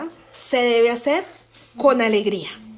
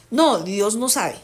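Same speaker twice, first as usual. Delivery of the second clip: ironic; 3 semitones lower, slower than usual. Acted. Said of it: "lo estoy hablando es como irónicamente".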